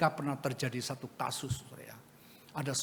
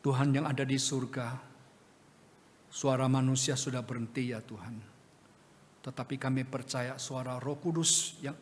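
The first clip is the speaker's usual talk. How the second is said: earnest pastoral prayer. Real, not acted. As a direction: pray for the congregation, steady and sincere. Leads a closing prayer.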